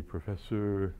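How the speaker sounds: lightly imitated French accent; a hint of a French professor's assistant. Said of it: "he had a wonderful French accent".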